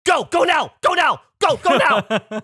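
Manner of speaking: high, loud urgent command; retold scream. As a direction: shout it like the panicked boat guy. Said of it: "the guy screams".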